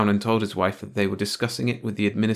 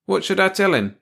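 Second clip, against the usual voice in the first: janitor voice; 11 semitones higher, 6 dB louder than usual. Acted. Janitor asks.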